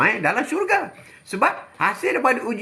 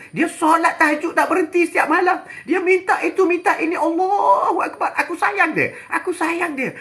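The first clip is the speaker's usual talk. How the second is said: voiced divine speaker; 9 semitones higher than usual. Allah speaking to the angels.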